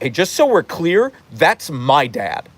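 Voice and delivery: starts high, slows into a pointed claim; lightly voiced jealous dog staking a claim; possessive dog voice. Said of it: "he's like".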